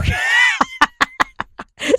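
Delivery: high breathy laugh breaking the story; burst of laughter. Real, not acted. Storyteller loses it and bursts out laughing. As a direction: laugh giving up on the telling.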